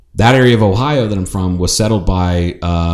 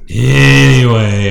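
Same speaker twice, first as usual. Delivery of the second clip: slow breathy whisper of exasperation; whispered anyway; 4 semitones higher, 4 dB louder, much slower than usual. Real, not acted. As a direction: drop to a drawn-out whisper to move on. Exasperated change of subject.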